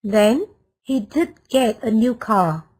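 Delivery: emphatic "did get" showing surprise. Shown as a demonstration. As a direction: stress on "did get", said slowly with weight. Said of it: "the emphatic form".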